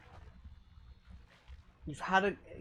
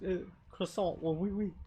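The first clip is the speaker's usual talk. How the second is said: put-on French accent; 5 dB quieter than usual. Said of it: "I'm so bad at that accent".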